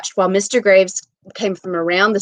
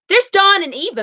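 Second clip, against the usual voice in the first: high, desperate yell; 12 semitones higher, 6 dB louder than usual. Acted. Wife yelling to the official, high desperate yell. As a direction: cry out the names, higher. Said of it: "Missus Hutchison yelled".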